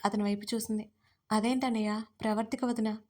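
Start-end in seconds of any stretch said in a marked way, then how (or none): none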